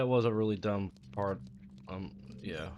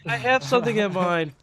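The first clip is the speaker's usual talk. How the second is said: mock child voice; 10 semitones higher, 9 dB louder than usual. Playing the niece, mocking.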